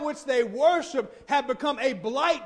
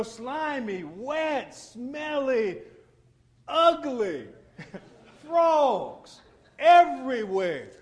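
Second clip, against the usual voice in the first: laughing disgust; slower than usual. Real, not acted. Disgusted list of frog traits.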